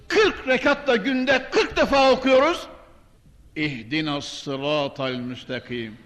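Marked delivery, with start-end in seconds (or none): 3.6-6.0 quiet, low prayer recital; soft recitation. Shown as a demonstration. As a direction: murmur the verse softly.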